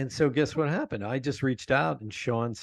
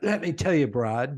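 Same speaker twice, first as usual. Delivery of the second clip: imitating British accent; 4 semitones higher than usual. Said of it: "suckered in on that British accent".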